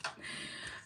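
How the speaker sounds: very quiet, voiceless chuckle; hushed little wheeze of amusement; soft laugh. Real, not acted. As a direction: laugh softly under the breath. Amused by being called Southern.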